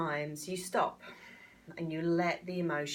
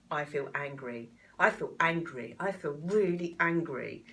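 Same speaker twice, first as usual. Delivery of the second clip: louder, rising into real anger; voicing anger; 4 dB louder than usual. Shown as a demonstration. Coach demonstrating tapping, getting into the anger. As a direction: let the anger build as you repeat it. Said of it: "And you get into that emotion".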